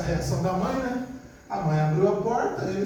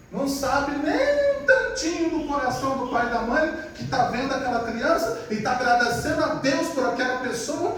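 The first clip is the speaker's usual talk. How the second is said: usual speaking voice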